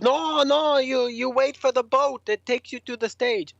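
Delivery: high, put-on official voice; insistent festival staffer. Cart driver corrects band looking for the stage, high and insistent. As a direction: imitate a staffer hastily correcting clueless visitors.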